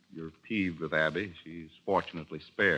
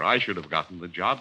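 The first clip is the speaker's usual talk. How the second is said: ordinary talk, nothing marked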